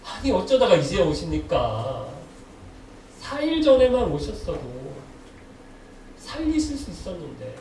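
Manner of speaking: mildly hammed-up, plaintive complaint; reproachful lament. Preacher acting Martha pleading with Jesus over her brother, reproachful lament. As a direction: imitate a grieving reproach, drawing out the sentence endings. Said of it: "이렇게 하소연하는 거예요".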